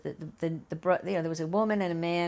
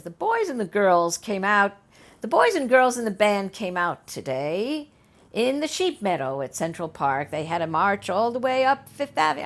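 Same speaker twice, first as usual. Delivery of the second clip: hammed-up broadcast announcement; newscaster voice; 3 semitones higher, 6 dB louder than usual. Mimicking the TV newscaster's report.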